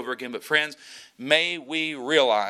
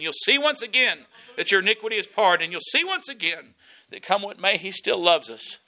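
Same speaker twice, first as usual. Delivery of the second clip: raised, high preacher's voice driving the point home; full-force preaching; 6 semitones higher than usual. Acted. Pastor preaching hard to his congregation about victory, full force.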